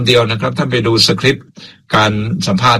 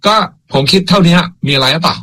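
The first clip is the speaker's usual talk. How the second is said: higher, brash so-what challenge; blunt defiant retort; 5 semitones higher than usual. Retold or imitated. Host rephrasing Weera in his own mood, defiant. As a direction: toss it back like a shrug. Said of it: "ถ้าผมจะพูดใหม่ใน อารมณ์ของผมเองคือว่า".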